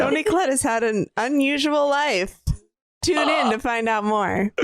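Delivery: lightly voiced TV documentary host; documentary narrator. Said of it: "This is a documentary about".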